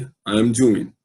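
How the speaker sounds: doing ending on the N sound, no G; correct pronunciation. Shown as a demonstration. Teacher repeating the model for students, ending on N. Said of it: "é assim que se fala".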